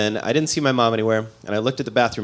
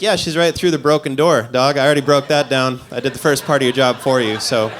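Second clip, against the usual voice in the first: defensive. Retold or imitated. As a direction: snap back defensively at the paramedics. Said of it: "I got all defensive".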